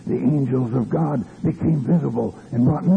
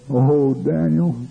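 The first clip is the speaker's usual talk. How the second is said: a slow, moderately raised first call; crying out; 3 semitones higher, slower than usual. Retold or imitated. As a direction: call out for Daniel, drawn out. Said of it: "he cried out".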